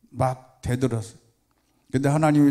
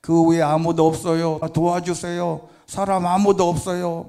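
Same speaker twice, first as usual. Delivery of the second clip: raised calling voice, a little higher; calling for help; 3 semitones higher than usual. Retold or imitated. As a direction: call up the cliff for help. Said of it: "힘껏 소리쳤습니다".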